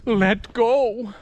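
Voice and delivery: lightly mocked, drawn-out nagging voice; a hint of a put-on inner voice; stupid inner voice. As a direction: imitate an annoying voice in the head. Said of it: "this constant, stupid voice of".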